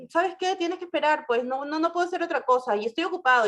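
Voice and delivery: mock the curt, dismissive lawyer; quick, careless, dismissive phone brush-off; rude brush-off. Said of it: "los abogados los tratan muy mal".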